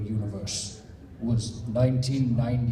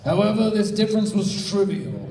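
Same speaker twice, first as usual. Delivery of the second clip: Mew voice; 8 semitones higher, 3 dB louder than usual. Acted. Reading Mew's lines.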